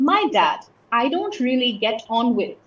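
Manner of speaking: "My dad" set apart at the front; emphasis on "My dad". Shown as a demonstration. Teacher showing learners added emphasis, stress on "My dad". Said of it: "is the emphasized word".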